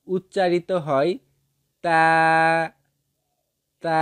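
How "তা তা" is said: তা with tongue tip at upper tooth roots; demonstrated letter sound. Shown as a demonstration. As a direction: model তা with a held, level vowel. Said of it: "দাঁতের গোড়ার সঙ্গে লাগিয়ে".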